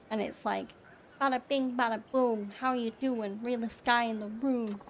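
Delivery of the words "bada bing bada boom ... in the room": hammed-up New York mobster accent; New York mafioso accent. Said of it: "New York accent where it's all, like, mafioso".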